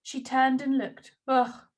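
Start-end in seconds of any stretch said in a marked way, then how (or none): 1.3-1.7 weary sigh. Acted. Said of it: "she sighed".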